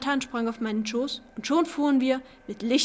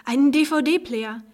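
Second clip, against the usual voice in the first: "Einen D-V-D-Player" drawn out slowly and louder, letters spelled out; proud reveal; 3 semitones higher, 7 dB louder, much slower than usual. A narrator's reading. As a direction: savour "D-V-D-Player" like a grand surprise. Proud reveal of his gift.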